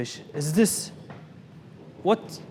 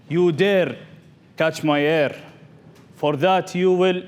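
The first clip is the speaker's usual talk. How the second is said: mock roar; 2 semitones higher, 4 dB louder, slower than usual. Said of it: "Then the king roared".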